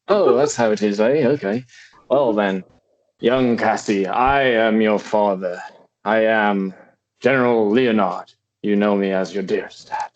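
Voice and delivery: shaky attempt at British, a band in mind; attempted British accent. A father introduces himself to young Cassie, attempted British accent. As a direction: try a British accent, not quite nailing it. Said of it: "my accent is terrible".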